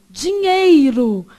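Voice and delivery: dinheiro drawn out with a clear "ei"; stretched "dinhEIro", i fully pronounced; full diphthong. Retold or imitated. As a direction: say DINHEIRO slowly, sounding the i in "ei". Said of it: "você não fala dinheiro".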